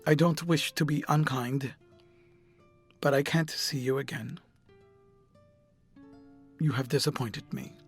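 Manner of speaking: composed, measured rejection; cool, controlled parting words; calm, clear. A narrator's reading. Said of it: "in his calm, clear voice".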